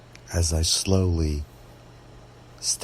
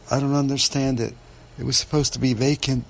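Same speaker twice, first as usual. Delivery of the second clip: higher, fast, distressed protest; upset, tearful; 7 semitones higher, faster than usual. A narrator's reading. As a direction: blurt it out in tearful bewilderment. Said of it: "tears streaming down her face".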